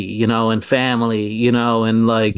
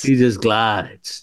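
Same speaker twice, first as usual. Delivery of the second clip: a hint of slow Pacino delivery; light mock Pacino, unhurried; Al Pacino impression; 3 semitones lower, much slower than usual. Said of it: "same as you".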